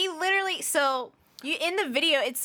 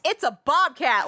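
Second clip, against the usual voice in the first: louder, higher yell of bobcat; mock scream; 5 semitones higher, 5 dB louder than usual. Retelling her favourite part of the video, mock yell. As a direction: echo the man's startled shout. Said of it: "he just screams".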